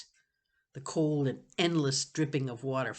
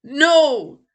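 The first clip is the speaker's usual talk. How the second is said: higher, louder choked no; choked cry; 12 semitones higher, 16 dB louder than usual. Acted. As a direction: cry out through a choked throat. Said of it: "choked throat".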